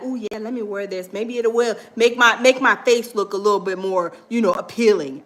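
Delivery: a hint of a vain man primping; lightly voiced preening; vain Shannon. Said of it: "He probably like".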